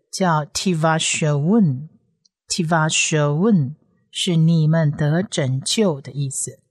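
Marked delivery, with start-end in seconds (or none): 0.5-3.8 slow word demo. Shown as a demonstration. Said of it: "看第一列的最后一个字".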